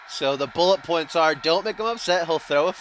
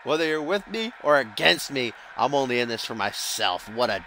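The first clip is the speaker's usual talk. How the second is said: higher-pitched hammed-up Russian accent heel promo; mock Russian accent; 3 semitones higher than usual. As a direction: boast like a Russian villain wrestler, hammed up. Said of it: "should I do that Russian accent?".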